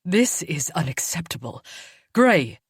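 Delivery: elder she-wolf calling out Gray in outrage; appalled outburst. Acted. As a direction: demand that Gray do something.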